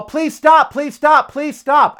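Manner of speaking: high, loud desperate shout. Retold or imitated. Owner screaming at a cyclist chasing his dog, loud desperate shout. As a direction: shout it at the top of your lungs. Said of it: "at the top of my voice".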